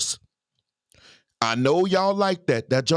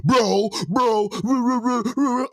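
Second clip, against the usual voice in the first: mock aggressive woman; 4 semitones higher than usual. Vlogger mocking a masculine woman, lightly hammed. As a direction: lightly imitate her rough talk. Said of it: "when I see a woman acting like that".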